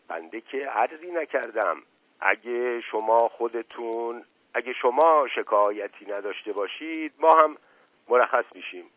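backing off gently, a touch placating; softened, backing down. Acted. The officer backs down before the lady, mildly yielding. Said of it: "نایب تیمورخان نرم شد".

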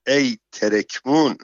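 mild mock cry of dismay; understated alarmed outburst; shout. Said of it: "فریاد زد".

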